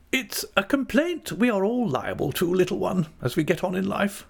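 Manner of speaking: high, cheerful aunt's voice. A narrator's reading. Aunt to little one about getting on in life, cheerful. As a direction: make light of it, pitched well up. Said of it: "said my aunt cheerfully".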